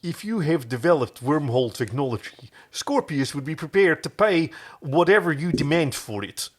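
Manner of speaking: put-on hammy Dutch accent; bad Dutch accent. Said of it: "I'm doing a really bad Dutch accent".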